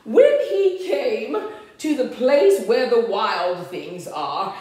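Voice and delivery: lively, sing-out story reading; storybook narration. A narrator's reading. Reader tells children of Max's room, storybook narration. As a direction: read it to small children, animated.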